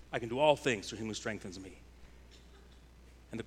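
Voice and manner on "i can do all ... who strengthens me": quick, low throwaway version of the verse; mock self-centered boast. Pastor mimics a believer misusing the verse, quick and offhand. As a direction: rattle it off like a slogan for your own kingdom. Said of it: "When we decide, "I decide the mountain".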